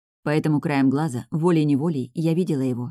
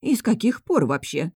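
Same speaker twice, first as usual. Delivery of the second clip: higher, astonished follow-up; amazed; 4 semitones higher than usual. A narrator's reading. Cook pressing the girl further, amazed. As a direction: press on in mild disbelief. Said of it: "изумилась кухарка".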